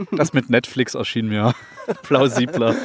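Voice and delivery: giggling through the words; laughing. Real, not acted. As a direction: laugh as you speak.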